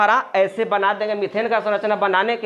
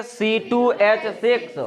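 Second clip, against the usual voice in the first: slow dictation; slower than usual. Shown as a demonstration. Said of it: "कैसे बोलेंगे?".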